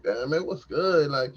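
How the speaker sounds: hyped pep talk. Retold or imitated. Man talking to his own member, hyped pep talk. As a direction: pump him up like a coach. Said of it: "I'm talking to him like".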